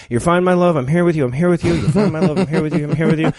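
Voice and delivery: rushed, hollow delivery of a line; bad acting. Shown as a demonstration. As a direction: say it like you're leaving the stage. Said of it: "he delivered it like an actor about to run on stage".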